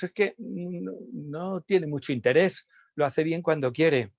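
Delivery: lightly voiced complaining parent; a hint of a dismissive parent; imitating parents. Parents complaining about the child, lightly voiced. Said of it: "A veces decimos".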